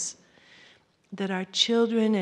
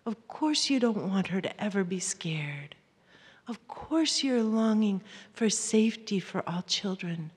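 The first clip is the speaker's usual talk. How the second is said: soft, hushed "of course"; gentle self-comfort; 3 dB quieter than usual. Shown as a demonstration. Parent soothing their own fear, hushed and gentle. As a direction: reassure yourself softly. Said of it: "say to ourselves".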